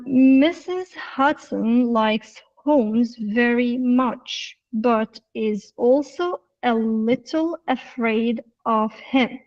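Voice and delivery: slow, word-by-word reading with clear gaps; normal reading, no linking. Shown as a demonstration. Teacher shows the class the unlinked reading, slow and careful. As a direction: read each word on its own, slowly. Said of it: "the normal reading".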